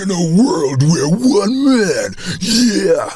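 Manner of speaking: high, drawn-out mock trailer announcer; amateur trailer-voice imitation. Hopefuls auditioning for the voiceover man, mock trailer voice. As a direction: stretch it out like a hopeful voiceover wannabe, mocking. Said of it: "They're saying".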